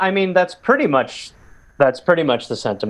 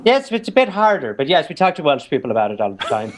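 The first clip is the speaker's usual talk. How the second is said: put-on Welsh accent; 3 semitones higher than usual. Playing a Welsh voter on request, Welsh accent. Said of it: "have you talked to any Welsh people".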